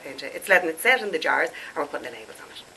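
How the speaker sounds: stuffed-up voice with sore throat; blocked nose. Real, not acted. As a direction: talk through a blocked nose and scratchy throat. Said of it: "I am so stuffed up".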